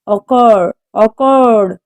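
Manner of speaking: occurred, stressed on CURRED; occurred with the weight on its second syllable. Shown as a demonstration. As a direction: say Occur as oc-CUR. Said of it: "The stress is on the second syllable".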